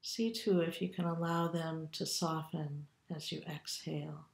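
calm, unhurried meditation guide with long pauses; guided meditation. Acted. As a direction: lead them gently through a body scan, leaving room to breathe. Leads body scan meditation.

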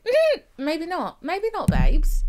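high, loud and slow, stretching each word; sassy drawn-out dismissal. Pretend. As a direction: drag it out like a diva saying no. Mock advice to TV character.

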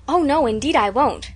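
eager. Acted. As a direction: rush to promise, eagerly. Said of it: "said Anne eagerly".

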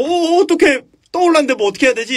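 high, fast panicked babble; panic, words tumbling out fast. Retold or imitated. Ron panicking as the club floats, high and fast.

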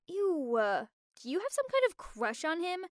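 acted grossed-out questioning; disgusted accusation. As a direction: grill a friend in mild disgust. Friend grills her about brother.

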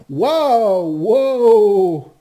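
loud, high wow of wonder; loud high gasp of amazement at the find; amazed. Real, not acted. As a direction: blown away by the sight. Discovers something in cave.

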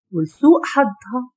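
ordinary delivery, nothing marked

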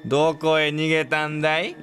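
slow, sing-song taunt of an axe murderer; drawn-out creepy call to a hiding victim; slow taunting killer. Pretend. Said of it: "みたいなこと？". (隠れた相手を探す殺人鬼のゆっくりした呼びかけ)

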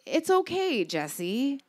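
soft, gentle cooing; grandma cooing comfort into the phone. Retold or imitated. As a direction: soothe her grandchild gently. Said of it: "she cooed into the phone".

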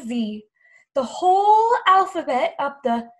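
lively storybook reading with big chants; reading to children. Acted. Teacher reads Chicka Chicka Boom Boom to children, lively. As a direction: read it aloud with playful drama. Reads picture book aloud.

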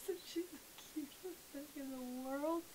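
hushed adoring gush; doting whisper. Real, not acted. Whispering over her dog.

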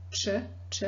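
"ch" said with mouth in a round shape; isolated "ch" through rounded lips. Shown as a demonstration. Teacher shows learners the Serbian sound, round-mouthed ch. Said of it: "putting your mouth in a round shape".

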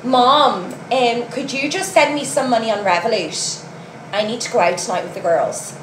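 lightly mocked posh Dublin accent. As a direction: imitate a posh Dublin kid asking mum. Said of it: "Posh Dublin accent".

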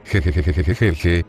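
risa "jejeje" repetida y mecánica; risa leída. A narrator's reading. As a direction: lee la risa sílaba a sílaba, sin reír de verdad. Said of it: "decía Hidan riendo". (risa fingida)

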